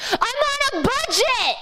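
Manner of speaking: high, emphatic exclamation; defiant exclaim. Real, not acted. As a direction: fling out the punchline. Defiant punchline.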